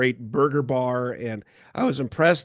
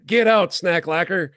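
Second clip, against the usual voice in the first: higher, louder, laughing mock scolding; laughing tease; 3 semitones higher, 4 dB louder than usual. Real, not acted. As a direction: laugh as you tease your friend. Teasing friend, laughing.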